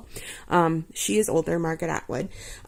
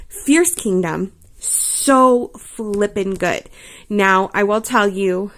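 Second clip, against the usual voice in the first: normal talking voice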